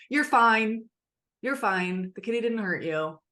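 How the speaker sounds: mildly brisk dismissive parent; brushing off. Retold or imitated. Parent brushing off a scared child, lightly curt. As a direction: wave the child's fear away, a touch curt. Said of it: "Instead of".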